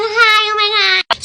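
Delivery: slow, gushing mock squeal; drawn-out, overdone hello; squealy mock greeting. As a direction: ham up the ladies' fake delight.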